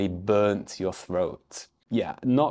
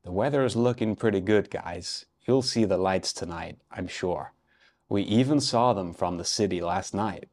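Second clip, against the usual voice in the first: put-on casual American tourist accent, quick start; a light American accent, half-serious. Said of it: "Here's my best American accent".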